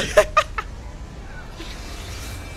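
long high wheezy laugh. Real, not acted. Gamer laughing over a winning play, breathless laugh. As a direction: laugh breathlessly, almost without voice.

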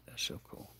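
unvoiced, hushed That's so cool; whispered awe. Real, not acted. Lighting a cigarette for his dad, whispering in awe. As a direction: breathe it out in quiet wonder. Marvelling at his own trick.

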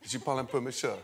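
French. Shown as a demonstration. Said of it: "I've got a great accent in French".

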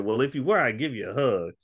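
put-on high, hopeful old man voice; old man's plea. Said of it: "He said".

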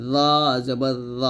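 heavy dh with rounded o in "র জবর র"; thick za. Shown as a demonstration. Teacher demonstrating the thick letter, heavily pronounced "র জবর র". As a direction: say "র জবর র" as a thick tongue-tip dh. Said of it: "মোটো হবে".

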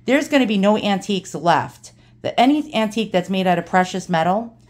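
lightly imitated old Brooklyn straight talker; Ronnie's New York accent. Dad's friend confides a warning, light New York accent. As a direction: put on a touch of old-timey New York. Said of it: "total New York accent".

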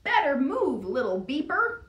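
loud rough holler. Acted. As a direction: holler at the small truck.

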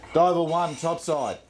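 calling a diver over the intercom; diver comms. Acted. Supervisor calls diver over intercom.

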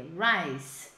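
RICE said low, ending in a sound near Z but not quite; almost-Z ending. Shown as a demonstration. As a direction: model RICE with a long final sibilant. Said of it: "Meio com som de Z, assim, mas não é bem Z".

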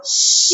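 "Xi" with a long hissing sh; final syllable sounded. Shown as a demonstration. Teacher making children feel the sound, "Xi" stretched out. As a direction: draw out "Xi" so the sound is felt. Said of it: "Sintam a sonorização da fala".

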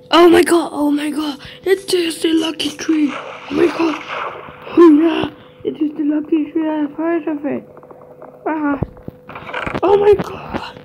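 squealing with giddy excitement; shrieking jackpot winner. Acted. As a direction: shriek like you hit the jackpot. Shrieking over lucky tree find.

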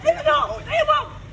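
real confrontational urgency; angry order. Real, not acted.

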